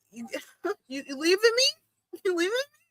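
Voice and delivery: high, soft whimper with laughs; mock heartbroken. Fan to departing favourite wrestler, mock tearful whimper. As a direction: squeak it out like an abandoned fan, half laughing. Acting hurt at wrestlers leaving.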